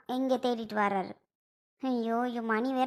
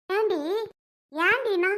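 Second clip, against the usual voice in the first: sharp, higher, louder scold; angry scolding; 6 semitones higher, 4 dB louder, much slower than usual. Acted. Mother scolding her daughter, angry and raised. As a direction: snap at her daughter in anger.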